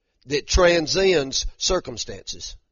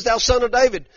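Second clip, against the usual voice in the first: higher-pitched mock cry for attention; retold crying out; 7 semitones higher, 3 dB louder than usual. Woman cries out to Jesus, retold in a raised voice. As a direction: imitate a woman calling out, mildly raised. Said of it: "she cries out and she says".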